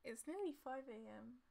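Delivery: high cooing pet voice. Real, not acted. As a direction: coo at a sleepy pet. Talking to just-woken Frankie.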